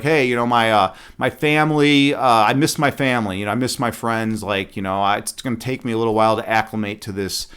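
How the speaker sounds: put-on understated sheepish girl; meek excuse. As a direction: mumble a lame excuse. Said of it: "She's like".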